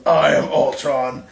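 slow menacing robot announcement, only hinted; slow robot villain. Retold or imitated. Friend telling a battle story, slowly intones as the robot.

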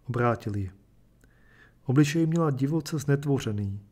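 measured, even storytelling voice; steady reader carrying a tragic tale; story narration. A narrator's reading. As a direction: read it like a literary short story aloud. Reads a short story aloud.

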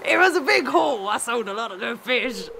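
lightly voiced pirate fisherman; a hint of a sea dog. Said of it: "pirate voice for Mister Willy now".

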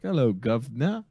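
slow, singsong hail with a rising lilt; passer-by greeting. Acted. People greeting the governor walking by, slow singsong greeting. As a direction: draw out the greeting, lifting the end. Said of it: "people are like".

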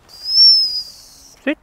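loud high sit command; sharp command. Real, not acted. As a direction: snap the command out.

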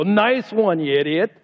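mock sarcastic jab; sarcastic mock praise turning to insult. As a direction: sneer it as a sarcastic put-down. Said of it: "Do you think Jesus was sarcastic?".

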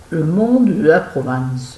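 put-on slow, drawn-out Provençal accent; hammed-up southern French accent from Provence. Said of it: "c'est là que je prends de l'accent".

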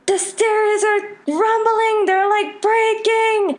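high frantic mock shriek; terrified student shrieking, high; retold panicked scream. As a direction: cry it out as the stairs shake. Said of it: "Then somebody screamed".

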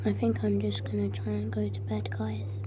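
soft unvoiced whisper. Real, not acted. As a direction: whisper it so nobody hears. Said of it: "it's getting really hard to breathe in here".

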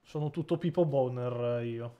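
a hint of a mock Russian actor voice; strange voice. Gamer joking to friends in a lightly mock Russian voice. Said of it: "ha fatto di parlare strano".

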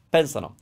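PENsano, stressed on the first syllable; stress before the ending. Shown as a demonstration. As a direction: hit PEN in Pensano and let -sano fall. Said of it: "put the stress somewhere before".

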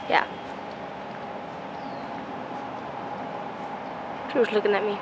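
speaking through metal braces; talking with new braces. Real, not acted. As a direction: teeth covered by braces. Seen 2: Metal braces clearly visible on teeth whenever her mouth opens.

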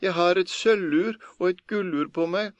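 high, desperate begging; priest pleading. A narrator's reading. Priest in chest bargains with Per, desperate pleading. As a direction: plead frantically to be let out. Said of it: "ropte presten".

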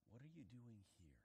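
hushed God voice; God asking Elijah softly; soft question. Acted. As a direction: ask it gently. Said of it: "God comes to him and says".

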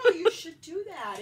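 laughing. Real, not acted. Responding to joke.

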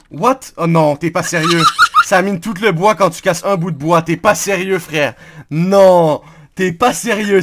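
loud, exasperated outburst; raging gamer. Real, not acted. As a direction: rant at your teammate, fed up. Friend mines all the wood.

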